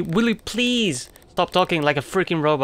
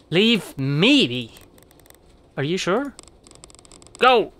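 mock upset brush-off; upset dismissal. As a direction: push him away, hurt. Crystal sends him away.

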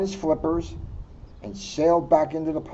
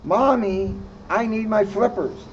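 higher little frog voice; a kid frog pleading, a bit higher; Froggy's voice; 4 semitones higher than usual. Acted. Froggy asking his mother for flippers, higher.

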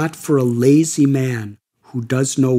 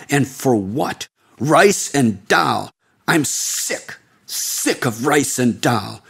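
scornful scolding. Acted. Sadhu keeps berating the seeker.

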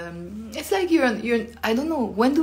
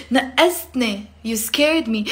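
slightly louder startled cry; mock startled; 2 semitones higher, 3 dB louder than usual. Shown as a demonstration. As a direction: act suddenly frightened. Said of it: "When I'm suddenly scared".

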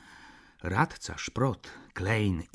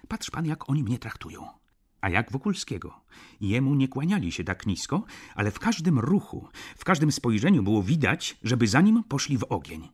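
angry retort; 4 semitones higher, 5 dB louder than usual. Acted. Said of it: "odparł z gniewem".

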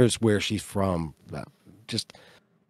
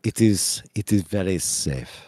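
put-on French accent; 3 semitones lower than usual. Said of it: "Nook has kind of a gravelly voice".

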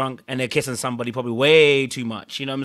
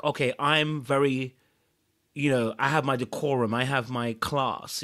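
measured, mock-dignified claim of decorum; putting on airs; slower than usual. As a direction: lightly imitate someone proud of their class. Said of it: "it gave that little bit of air".

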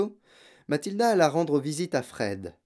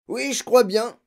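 high, loud, frightened reply; nervous agreement; 11 semitones higher, 6 dB louder than usual. A narrator's reading. Father stiff on his chair, frightened. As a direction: agree with alarm in the voice.

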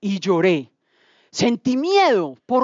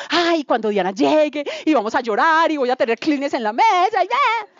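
fantasizing gush; 5 semitones higher than usual. Retold or imitated. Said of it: "Y yo estaba así, yo".

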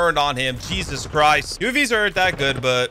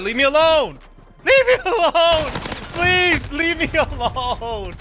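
mock whiny pleading; 11 semitones higher, slower than usual. Gamer begging Right Shield enemies to stop, hammed-up whine. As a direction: ham up being bullied by the enemy. Enemies hunting him, laughing.

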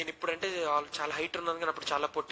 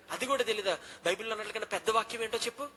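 rapid-fire scolding; 5 semitones higher, 3 dB louder than usual. Retold or imitated. Dean firing questions.

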